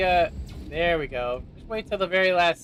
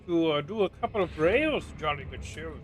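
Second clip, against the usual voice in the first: mock British accent; 4 dB quieter than usual. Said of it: "That is not how we talk".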